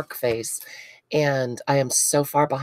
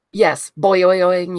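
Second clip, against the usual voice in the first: boing noise; 2 semitones higher, 5 dB louder, slower than usual. Retold or imitated. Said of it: "You have to make the noise".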